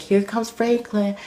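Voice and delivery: high, slow mocking counselor voice; high singled-out greeting, mimicking the counselor; imitated counselor. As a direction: put on a high-pitched counselor, drawn out.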